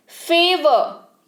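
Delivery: फेवर stretched out very slowly, syllable by syllable; slow classroom repetition; slow demo. Shown as a demonstration. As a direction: draw out फेवर for learners to copy. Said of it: "यानी कि एहसान".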